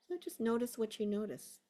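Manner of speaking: unhurried guiding voice with long pauses; guided meditation. Real, not acted. Teacher settling a class into a body scan, guided meditation. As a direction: ease them into a body scan.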